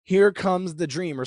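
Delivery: low, subdued scorn, lightly acted; bitter brothers. Brothers spot the dreamer coming, quietly bitter. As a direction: say it slowly, with resentment held down. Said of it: "they're still bitter about that".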